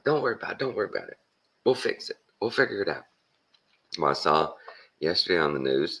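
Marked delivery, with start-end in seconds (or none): 0.0-3.0 high-pitched imitated reassurance; acted high-voiced scrambling to reassure; flustered reassuring. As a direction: reassure in a raised, put-on voice. Shocked comedian retold reassuring musician.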